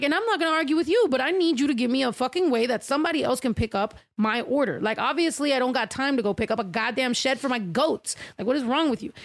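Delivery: fast, sharp comeback at the manager, then settling; heated retort. Retold or imitated. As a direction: push back hard and fast. Retold heated argument with manager.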